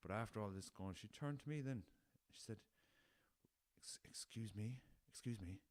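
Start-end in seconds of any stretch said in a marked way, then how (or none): 3.8-5.6 slow, hushed excuse me with a rising ask; imitating a snooty whispered interruption; whispered polite excuse me. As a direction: breathe the words like a prim request. Woman interrupts speaker at bar.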